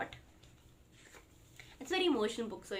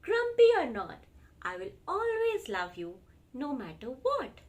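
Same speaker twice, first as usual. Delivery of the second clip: loving reassurance; 3 semitones higher, 6 dB louder than usual. Acted. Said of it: "said Large".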